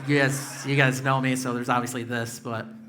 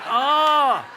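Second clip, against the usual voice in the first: high, loud startled oh; surprised oh; 12 semitones higher, 9 dB louder than usual. Retold or imitated. Comic reacts startled to the wife's offer, a high loud oh. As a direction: gasp it out in shock.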